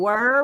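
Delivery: "were" with a Southern twang; "were" in a Memphis accent. Shown as a demonstration. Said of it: "We say".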